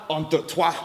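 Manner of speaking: toit said the French way, like twah; French word. Shown as a demonstration. French cat, toit said as twah. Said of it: "There's a French cat".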